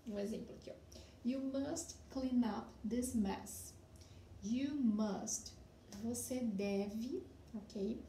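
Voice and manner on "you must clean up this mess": slow model sentence. Shown as a demonstration. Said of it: "for example".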